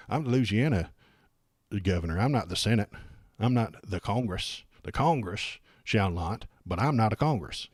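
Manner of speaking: lightly mimicked Louisiana accent. Streamer playing the governor dodging the First Amendment, light Louisiana accent. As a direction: try on a Louisiana accent for a weaseling politician. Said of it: "can I do a Louisiana accent".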